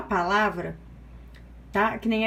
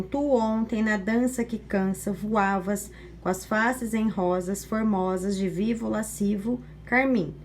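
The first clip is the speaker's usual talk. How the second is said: poem read plainly; slower than usual. Shown as a demonstration. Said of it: "poema a gente lê como se fosse um texto comum".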